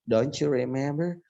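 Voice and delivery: DON'T YOU as "donchu", drawn out, before REMEMBER; DON'T YOU REMEMBER said "donchu remember", slowly; CH linking. Shown as a demonstration. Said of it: "Ada C-nya di situ".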